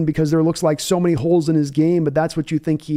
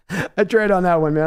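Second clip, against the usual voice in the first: embarrassed laugh. Real, not acted. Laughs at own failed accent.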